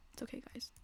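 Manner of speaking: very soft, almost whispered comfort; hushed reassurance. Real, not acted.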